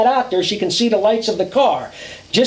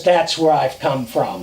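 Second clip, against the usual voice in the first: put-on old hag voice; 8 semitones lower than usual. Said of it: "the old hag goes".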